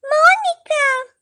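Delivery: high, drawn-out indignant cry; jealous outrage. Acted. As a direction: stretch the name in outrage. Jealous girlfriend hears rival.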